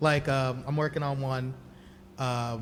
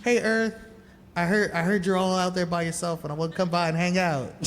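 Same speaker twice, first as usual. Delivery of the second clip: lightly voiced, higher friendly asteroid; 4 semitones higher than usual. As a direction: invite like an eager would-be friend, lightly acted. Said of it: "it's like the asteroid's like".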